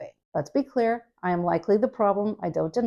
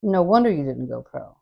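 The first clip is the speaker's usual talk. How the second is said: mean dig; 4 semitones lower, 3 dB louder than usual. Retold or imitated. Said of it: "That line doesn't work".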